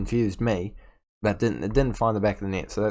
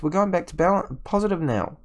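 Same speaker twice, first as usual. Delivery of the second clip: ordinary talk, nothing marked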